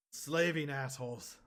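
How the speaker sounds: put-on loud slurred drunken shout; slurred yell. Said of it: "yell in a slurred voice".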